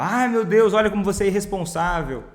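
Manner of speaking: hammed-up irritated scolding; mock scolding. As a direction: scold him like an exasperated mom, half-acted. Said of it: "não pagou brava".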